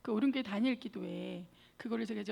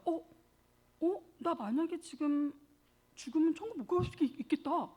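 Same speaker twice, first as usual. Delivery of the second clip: dawning alarm; 5 semitones higher, 3 dB louder than usual. Retold or imitated. Sudden realization about heaven.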